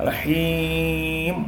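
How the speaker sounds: റഹീം held then stopped dead; റഹീം drawn out with a clean stop; stop on the end. Shown as a demonstration. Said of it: "stop ചെയ്യണം".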